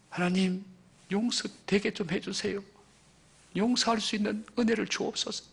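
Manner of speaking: pleading prayer. Acted. Sufferer asking God for help to forgive, acted as a hushed plea. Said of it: "그런 자기 선언을 하면서".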